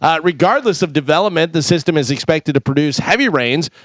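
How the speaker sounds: steady sponsor read, then the news. Acted. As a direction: read the ad and weather like a radio newscaster.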